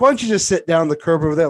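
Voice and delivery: loud, fast cop order; pushy guard telling him to sit; mock security guard. Imagined security guard confronting him.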